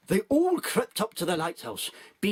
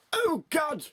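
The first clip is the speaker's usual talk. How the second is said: mock shout; 10 semitones higher than usual. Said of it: "shouted Julie Andrews".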